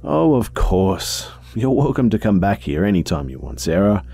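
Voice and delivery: put-on kind old lady. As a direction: soothe a visitor like an old lady. Rose voiced.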